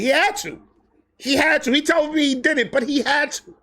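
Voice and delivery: high and urgent, repeating it; excited insisting. Real, not acted. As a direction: insist it, worked up. Laughing insistence.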